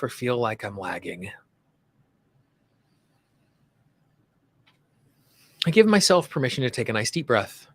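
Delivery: measured lead-and-repeat delivery with long pauses; guided tapping affirmations. Shown as a demonstration. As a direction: say each affirmation phrase by phrase, leaving room to repeat.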